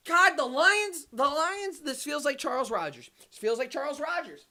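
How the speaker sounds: despairing fan's high moan; anguished lament. Real, not acted. Lamenting the team's pick.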